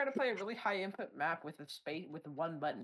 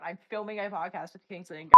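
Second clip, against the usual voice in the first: loud; 19 dB louder than usual. Real, not acted. Telling brother off, very loud.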